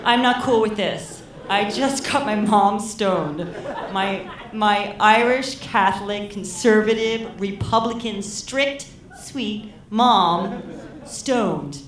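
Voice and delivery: loud, high panicked rant. Retold or imitated. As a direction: panic while half laughing. Panicking after getting mom stoned.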